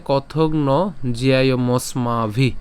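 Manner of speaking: slow, careful chanting of the joined words; slow recitation. Shown as a demonstration. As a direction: recite it slowly, joining the words. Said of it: "তাহলে কি দাঁড়াচ্ছে". (ধীর লয়ে যুক্ত পাঠ)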